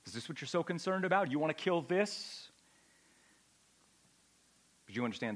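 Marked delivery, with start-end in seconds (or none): 0.1-2.5 scornful question. Acted. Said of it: "In other words".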